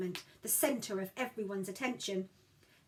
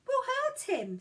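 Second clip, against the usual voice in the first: alarmed; 5 dB louder, slower than usual. Acted. Gideon alarmed.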